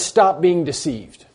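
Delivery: preacher driving home a quoted command; emphatic command. Retold or imitated. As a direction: press each word as an urgent order. Preacher voices the apostle's emphatic command.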